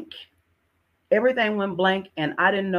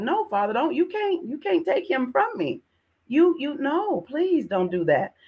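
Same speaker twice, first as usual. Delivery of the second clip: desperate prayer; 7 semitones higher than usual. Retold or imitated.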